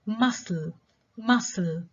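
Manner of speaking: "muscle" modelled twice, stressed on MUS; first-syllable stress. Shown as a demonstration. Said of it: "examples of stress on the first syllable".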